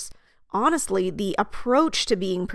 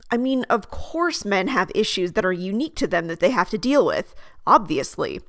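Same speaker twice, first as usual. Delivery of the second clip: authoritative. Acted. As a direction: state it as the obvious, with authority. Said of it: "The goal is to sound authoritative".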